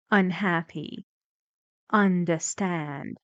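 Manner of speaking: "Unhappy" with "hap" strongest, "Understand" with "stand" strongest; firm primary stress on "hap" in "Unhappy" and "stand" in "Understand"; graded stress. Shown as a demonstration. Teacher models for students, "Unhappy" and "Understand" with energy on the primary stress.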